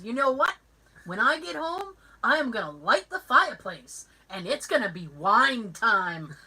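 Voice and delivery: imitated fed-up announcement through a wall; mildly exasperated, stretching out the last words; frustrated coworker. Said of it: "she was getting kind of frustrated".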